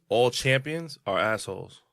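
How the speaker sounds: each word spelled out slowly; slow and deliberate. Real, not acted. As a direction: lay down the motto, slowly. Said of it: "I live by this".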